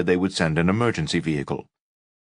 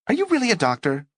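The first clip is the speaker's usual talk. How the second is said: suspicious woman; faster than usual. Acted. Suspicious roommate voiced.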